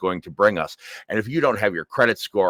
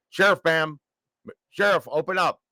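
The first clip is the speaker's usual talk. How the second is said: sheriff at the door; 8 semitones higher than usual. Retold or imitated. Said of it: "I hear".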